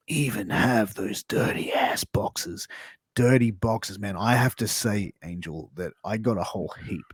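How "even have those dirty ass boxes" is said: whisper. Acted. Whispered aside in ad read.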